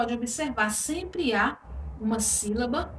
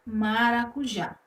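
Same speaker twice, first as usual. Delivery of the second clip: maracujá com o JÁ final mais forte; tônica em JÁ; slower than usual. Shown as a demonstration. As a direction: diga maracujá pausado, marcando o JÁ. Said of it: "que é também uma oxítona". (maracujá com força na última sílaba, JÁ)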